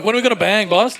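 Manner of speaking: cracking up mid-quote; stoned guy laughing at his own line to the boys; laughing through the quote. Retold or imitated. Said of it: "I'm like".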